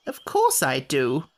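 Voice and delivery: a cross little sand-fairy; Samiad voice. Acted. Samiad character voice.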